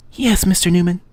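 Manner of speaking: high, breathy-free Eastern European woman's voice; a caller with an Eastern European accent asks his name. Acted. Caller from LH Simulations asks for Mister Newman, Eastern European accent. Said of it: "very sexy female voice in an Eastern European accent".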